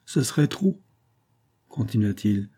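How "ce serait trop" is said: higher, coaxing humble tone; wheedling humility. A narrator's reading. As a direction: soften into humble cajolery. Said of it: "prit des tons de câlinerie et d'humilité". (câlin et humble)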